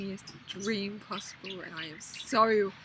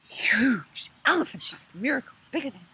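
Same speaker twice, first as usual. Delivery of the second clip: breathy whisper; 5 semitones higher, 8 dB louder than usual. Real, not acted. Emphatic size word whispered.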